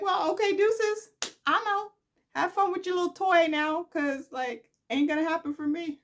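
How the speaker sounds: high, loud, bratty brush-off; mock Adam quitting. Adam storming off from his father, high and bratty.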